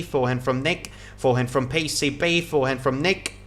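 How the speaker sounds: quick rhythmic rally calls, each shot named; steady live commentary calling the rally; tennis play-by-play. Acted. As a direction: call every shot as it's struck.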